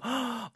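sharp high intake of breath; happy gasp; excited gasp. Shown as a demonstration. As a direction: gasp in delight. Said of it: "sound very up and exciting".

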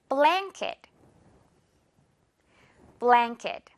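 blanket said as blaŋket; ng sound. Shown as a demonstration. Teacher models for repeat, ng. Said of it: "N은 이응 발음 처리해주면 돼요".

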